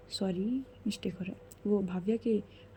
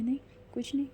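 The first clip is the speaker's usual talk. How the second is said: scared denial; 4 semitones higher, 3 dB quieter, faster than usual. Acted. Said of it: "Bhavya थोड़ी सी डर रही थी".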